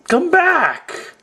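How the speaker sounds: high frantic yell; panicked screaming. Pretend. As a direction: scream after him in panic. Skit minion panicking.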